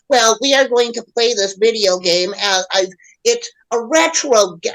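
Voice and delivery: lightly put-on voice of earnest gamers; a hint of a mocking imitation; mocked clowns. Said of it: "So what the fuck are you clowns".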